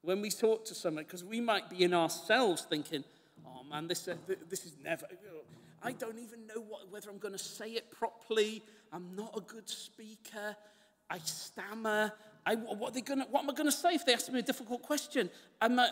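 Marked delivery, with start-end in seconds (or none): 3.4-15.3 nervous inner voice. Retold or imitated. Preacher voices nervous evangelist's thoughts.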